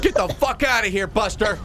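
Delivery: high, stunned get out of here; stunned, almost laughing disbelief; shocked yell. Real, not acted. Reacts to shooting.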